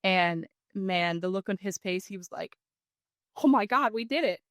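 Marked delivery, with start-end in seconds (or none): 3.4-4.4 higher, louder burst of joy; imitating an excited son; kid's excitement. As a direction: relive the kid's thrill at the shot. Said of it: "so excited".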